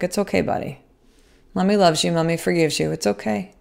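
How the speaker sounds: soft, reassuring, fading away; soothing mom. Retold or imitated. Mother reassuring her apologizing son in the car, soft. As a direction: gently comfort a child. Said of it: "It's like".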